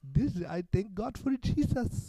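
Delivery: high, slow, mock southern preacher drawl; mock southern host thanking God; hammed-up southern accent. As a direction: drag it out in an over-the-top southern accent. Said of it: "I got this southern accent".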